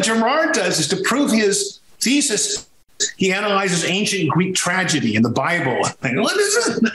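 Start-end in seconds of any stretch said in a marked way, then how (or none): 6.2-6.9 high, scoffing disbelief; skeptical. Retold or imitated. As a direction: toss it off like it's nonsense. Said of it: "I was so skeptical".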